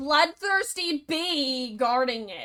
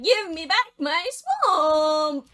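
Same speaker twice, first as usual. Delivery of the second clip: ogre demanding; 4 semitones higher, 5 dB louder, slower than usual. Acted. Shrock demands his swamp.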